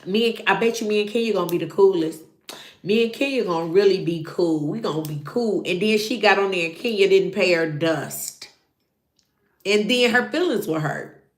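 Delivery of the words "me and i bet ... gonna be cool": giddy bragging. Retold or imitated. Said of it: "told all her friends".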